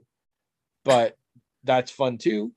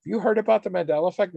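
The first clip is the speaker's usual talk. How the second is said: retold video character; 6 semitones higher, much faster than usual. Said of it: "she's like".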